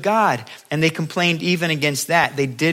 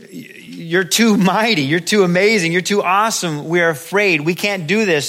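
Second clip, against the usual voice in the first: louder, raised voice of overwhelmed people; mock awed fear; 4 semitones higher, 5 dB louder than usual. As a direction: protest in awe, half-afraid. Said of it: "The Israelites were afraid to hear".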